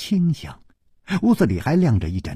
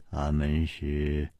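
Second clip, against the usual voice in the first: pointed question; 7 semitones lower, 8 dB quieter, slower than usual. A narrator's reading. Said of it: "盯着他说".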